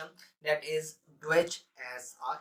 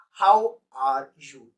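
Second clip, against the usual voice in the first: "How are you?" drawn out slowly, each word separate; slow demo phrase; 11 dB louder, much slower than usual. Shown as a demonstration. Teacher slowly presenting the phrase to students. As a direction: spell it out slowly for learners. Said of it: "The next word is".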